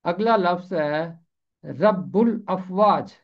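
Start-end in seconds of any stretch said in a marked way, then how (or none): 1.6-3.1 رب الافواج slowed, doubled b then ul-afwaj; slow careful pronunciation. Shown as a demonstration. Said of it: "غلط پڑھتے ہوئے سنا ہے".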